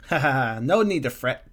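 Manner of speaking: light acted laugh; a laughing reassurance, hammed up. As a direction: chuckle your way into the line. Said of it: "Her laughter seemed to come".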